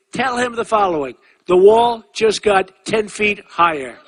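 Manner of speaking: firing back at the Mexican ex-president; mock retort. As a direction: lean into the comeback, slow. Quoting his own retort.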